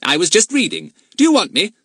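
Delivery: put-on high, loud well-mannered boy; polite boy voice. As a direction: answer like a good schoolboy. Narrator voices Fatty.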